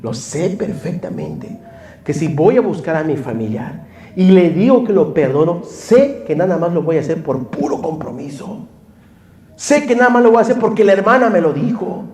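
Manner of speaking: rising, pleading cry to the Lord; retold tearful prayer. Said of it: "me arrodillaba y decía".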